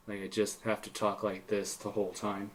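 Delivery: softly put-on character voice; Alphonse Elric. Shown as a demonstration. Player showing friends his in-character voice, lightly put on and soft. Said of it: "talk like I was Alphonse Elric".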